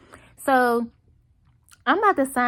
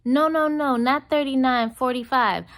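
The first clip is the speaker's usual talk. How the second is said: insistent waitress; 5 semitones higher than usual. Retold or imitated. Waitress disputing the amount.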